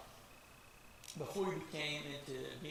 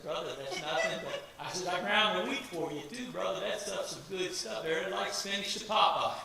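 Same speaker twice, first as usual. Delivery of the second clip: chuckling, louder, proudly bragging; retelling his own boast with laughter; laughing boast; 6 dB louder than usual. Retold or imitated. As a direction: laugh through the brag about the wheat.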